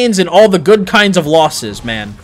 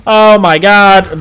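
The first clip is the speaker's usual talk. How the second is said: exasperated oh my God; 4 semitones higher, 6 dB louder, much slower than usual. Retold or imitated. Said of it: "I'm just like".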